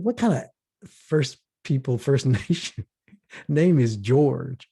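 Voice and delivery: can't believe a First Nation man is named George; mock amazed, drawn-out ending; incredulous question.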